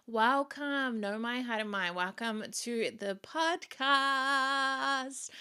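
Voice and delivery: high, drawn-out host greeting; sing-song welcome. Real, not acted. Host greeting new listeners to the podcast, sing-song. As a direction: stretch the final word out playfully.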